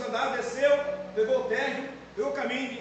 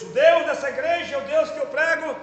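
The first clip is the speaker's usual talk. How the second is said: fervent raised prayer, louder; praying aloud; 2 semitones higher, 4 dB louder than usual. Retold or imitated. Pastor retelling his bathroom prayer, fervent and loud. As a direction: cry out to God in earnest.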